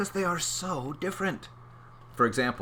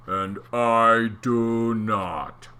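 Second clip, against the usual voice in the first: mean eel; 5 dB louder, much slower than usual. Acted. Eel refuses snacks.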